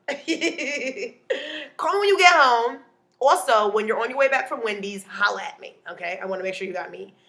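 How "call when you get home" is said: mock parent.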